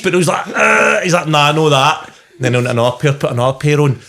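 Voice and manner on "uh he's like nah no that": mumbling visitor. Retold or imitated. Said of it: "he's making noises".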